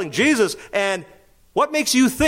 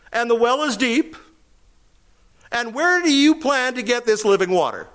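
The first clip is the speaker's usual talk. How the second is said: a sarcastic edge, a bit higher; sharp sarcastic retort; 5 semitones higher than usual. Acted. Samaritan woman snapping back at Jesus, sarcastic retort. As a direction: brush off his offer with a biting edge. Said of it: "A retort has a little sarcasm in it".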